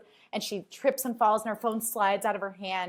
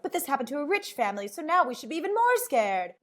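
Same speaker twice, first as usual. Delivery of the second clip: higher, faster mock-serious tone; mock movie voice; 6 semitones higher than usual. Narrator mocking nineties crime movies, higher mock voice. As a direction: parody the dramatic movie pitch.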